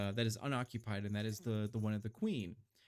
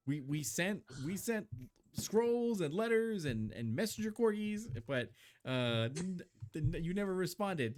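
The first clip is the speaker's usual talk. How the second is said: higher, flustered excuse; flustered advisor; 6 semitones higher than usual. Acted. Bruce defends himself to the angry queen, high and flustered. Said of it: "no one thought to tell me".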